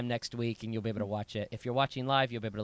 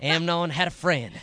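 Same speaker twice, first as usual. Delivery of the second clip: mock sermon title; 2 semitones higher, 6 dB louder than usual. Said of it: "Heather always says".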